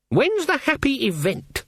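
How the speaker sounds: cold, high, clipped-off question; icy. A narrator's reading. Granny Weatherwax icily asking Magrat about the wedding, cold. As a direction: freeze her out with the question.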